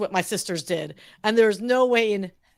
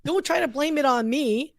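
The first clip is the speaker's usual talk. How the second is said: higher-pitched sisterly protest; bickering with siblings, pitched up; indignant retort; 4 semitones higher than usual. Retold or imitated. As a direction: argue back, indignant and emphatic.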